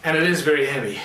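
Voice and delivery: breathless from holding the breath; winded, short of air. Real, not acted. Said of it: "I'm out of breath".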